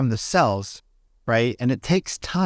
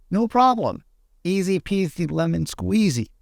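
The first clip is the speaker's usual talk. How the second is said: higher, bright no-problem voice; breezy and carefree; 7 semitones higher than usual. Retold or imitated. The calm self shrugs off problems, higher and breezy. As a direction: toss it off lightly. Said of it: "now those are like".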